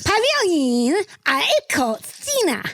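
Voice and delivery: Australian accent, hammed-up. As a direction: caricature an Aussie mother. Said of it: "I'm doing the dialect".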